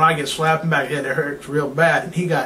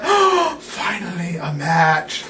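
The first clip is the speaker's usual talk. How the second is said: mock relief; slower than usual.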